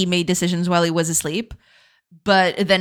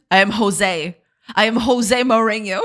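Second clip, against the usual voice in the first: loud, punchy mock accent; mock accent, projected; Mourinho accent; 2 semitones higher, 4 dB louder than usual. Shown as a demonstration. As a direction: put on the accent, announcing the name proudly. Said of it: "read it with the accent".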